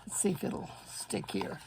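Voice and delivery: muttered aside. Real, not acted. Muttering to self while fixing.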